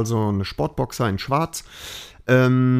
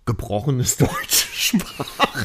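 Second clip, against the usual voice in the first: 1 laughing; much slower than usual. Real, not acted. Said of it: "Das war gemein".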